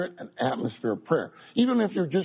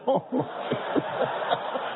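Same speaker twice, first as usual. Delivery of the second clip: airy laugh; 7 semitones higher than usual. Real, not acted. Laughs after tender "Oh, Tyler.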